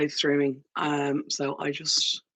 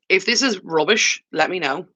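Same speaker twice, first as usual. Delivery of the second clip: underwater; 2 semitones higher, 6 dB louder than usual. Real, not acted. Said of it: "It sounds like I'm underwater".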